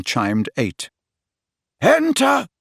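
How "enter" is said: high, ringing call through the door. A narrator's reading. Dumbledore calling to Harry at the door, ringing call. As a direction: call the visitor in brightly. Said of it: "called Dumbledore".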